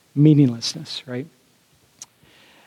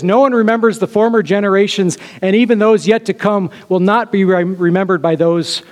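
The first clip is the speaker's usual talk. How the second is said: declaiming Solomon; 4 semitones higher than usual. Shown as a demonstration. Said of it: "he finishes with this".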